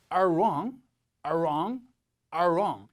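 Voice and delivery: wrong begun with a held R sound; R sound first. Shown as a demonstration. Teacher drilling students, wrong led in by a long R. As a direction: growl into R before saying wrong. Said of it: "처음에 R 소리가 나야 돼요".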